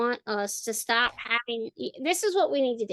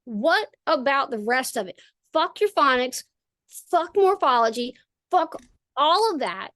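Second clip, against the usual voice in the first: raised rant; 4 semitones higher than usual. Retold or imitated. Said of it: "I'm going".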